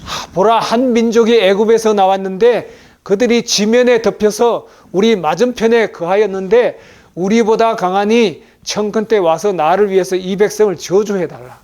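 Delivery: loud, high-pitched preaching delivery; scripture proclamation. Acted. Preacher voicing the king's plea to the prophet, loud proclamation.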